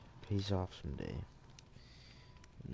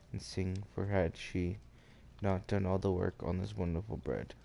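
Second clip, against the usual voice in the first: measured read-aloud storytelling; story narration. A narrator's reading.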